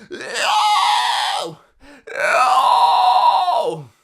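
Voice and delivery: expressive high shout. Shown as a demonstration. Coach demos the better take, soaring shouted cry. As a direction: throw the "Oh!" up high with full feeling. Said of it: "But doing".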